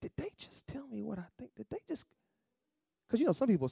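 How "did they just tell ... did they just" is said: mock stunned disbelief. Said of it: "you're trying to figure out".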